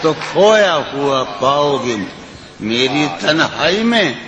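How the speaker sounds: lilting, sung-through recitation of a ghazal; poetry recitation. Acted. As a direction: recite it like at a mushaira.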